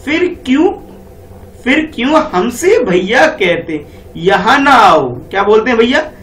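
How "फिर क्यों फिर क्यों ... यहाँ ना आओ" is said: slow lilting recital of the verse; poem recitation. Shown as a demonstration. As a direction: read the rhyme out slowly to children. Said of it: "तो यहाँ बोला जा रहा है".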